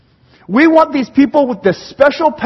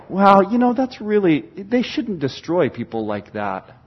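mild disapproval; 2 semitones lower than usual. Acted. Preacher mocking critics of the Hulk, mildly disapproving. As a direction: object meekly, like a squeamish critic. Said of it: "We don't ever sit back and go".

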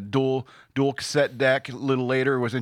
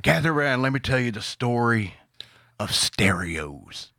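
put-on old prospector. Old-timer voice telling tales.

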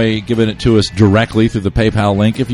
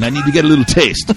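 Godfather mobster quote; 5 semitones higher than usual. Retold or imitated. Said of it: "and he says, but in Italian".

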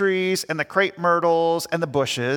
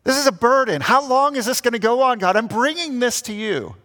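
honest lament; 5 semitones higher than usual. Retold or imitated. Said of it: "This is how you can communicate to God".

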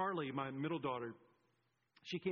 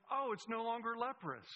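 higher-pitched, acted discovery; playful astonishment, pitched up; mock surprise; 6 semitones higher than usual. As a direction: react as if just seeing it change. Acting out reaction to the sign.

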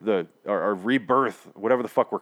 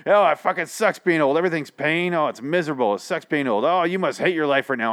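in-your-face taunting; 5 semitones higher than usual. Retold or imitated. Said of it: "He gets right in her face".

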